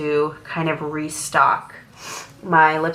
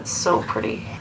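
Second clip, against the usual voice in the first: whisper; 4 semitones lower, 6 dB quieter than usual. Real, not acted. Whispering near the baby.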